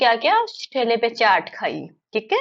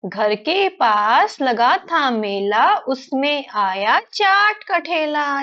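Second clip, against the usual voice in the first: put-on slow sing-song children's verse; poem recitation; much slower than usual. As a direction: recite slowly, stretching each word with a lilting tune.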